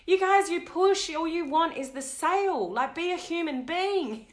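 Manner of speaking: retelling a tearful outburst at a salesman; upset telling-off. Retold or imitated. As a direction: tell him off through hurt. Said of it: "I just got really shitty with him".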